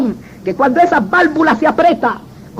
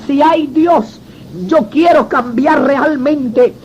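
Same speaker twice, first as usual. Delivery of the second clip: earnest plea; much slower than usual. Retold or imitated. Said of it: "Grita, di todo lo que".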